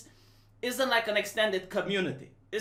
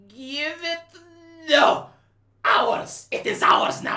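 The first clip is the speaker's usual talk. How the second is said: greedy politician; 7 semitones higher, 6 dB louder, slower than usual. Retold or imitated. Politicians grabbing the tax money.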